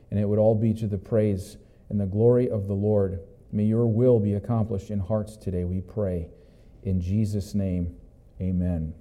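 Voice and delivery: quiet, hushed opening prayer to the Lord. Real, not acted. Pastor praying for blessing on the sermon, hushed and reverent. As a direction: pray softly and reverently.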